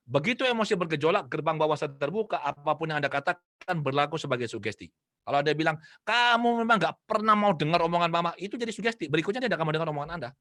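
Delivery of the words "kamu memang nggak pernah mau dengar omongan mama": higher-pitched mock scolding; imitated complaining parent. Parent labels the child as disobedient, mock scolding. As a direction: scold as an exasperated parent would.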